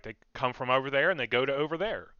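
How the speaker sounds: quick, simple squirrel chatter. Pretend. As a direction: chatter fast like a small animal. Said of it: "They're like".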